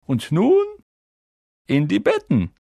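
loud announcement; calling out an order. A narrator's reading. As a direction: send the whole hall off loudly. Headmaster sends everyone to bed.

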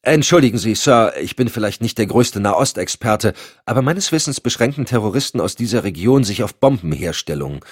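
objecting to his boss, bursting out. Acted. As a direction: let it burst out of him, a little indignant. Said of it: "platzte es aus ihm heraus".

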